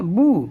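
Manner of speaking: "بو" with a long oo vowel; boo pronunciation. Shown as a demonstration. Teacher showing be with pesh above, boo pronunciation. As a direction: draw out "بو" as boo. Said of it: "تلفظ ہوگا".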